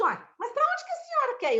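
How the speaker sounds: high, puzzled Minas voice; surprised firefighter. Retold or imitated. Firefighter asking the injured woman where to go, puzzled. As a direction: ask where she wants to go, baffled. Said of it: "ele assim".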